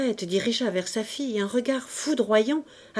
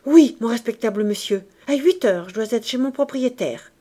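eager reply; 4 dB louder than usual. Acted. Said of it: "Il répondit vivement".

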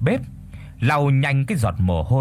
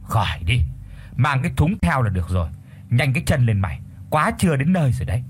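hurrying urgently; faster than usual. Acted. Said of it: "hối thúc".

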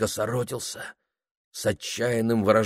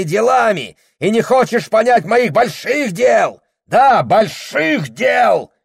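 higher, louder and slow, hammering each word; furious shout; 13 semitones higher, 8 dB louder, slower than usual. A narrator's reading. Husband scorning his wife's small mind, slow furious shouting. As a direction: roar it down at her.

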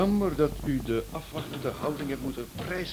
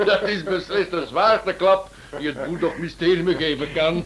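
laughing; 5 semitones higher, 3 dB louder than usual. Acted. Laughs at wife's disguise.

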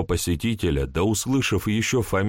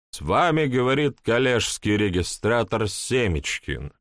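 put-on town drunk; 3 semitones higher than usual. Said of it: "полупьяный голос".

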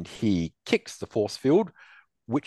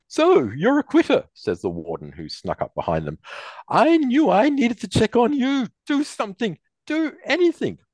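high, loud contemptuous villain; sneering warden; 5 dB louder than usual. Acted. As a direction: taunt them from up high.

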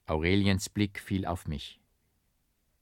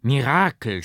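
louder cries of Mirakel, Mirakel; crowd shouting; 3 semitones higher, 6 dB louder than usual. A narrator's reading. The crowd shouts about the miracle, loud. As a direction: shout it again and again. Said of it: "schrie das Volk immerfort".

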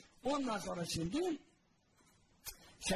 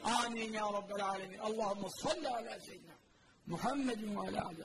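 prayer; 3 semitones higher than usual. Acted. Preacher praying for the congregation, earnest and pleading.

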